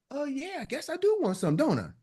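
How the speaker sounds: soft, high mock realisation, falling at the end; persuaded customer. Customer giving in to Tawana's sales question, softly persuaded. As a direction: play a customer gently coming round. Acts customer agreeing to pitch.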